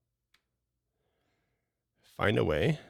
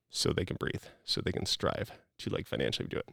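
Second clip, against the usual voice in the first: whispering; 6 dB quieter than usual. Real, not acted. Soft emphatic point.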